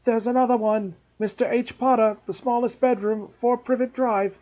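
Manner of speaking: high excited shout across the house. A narrator's reading. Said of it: "Then he shouted".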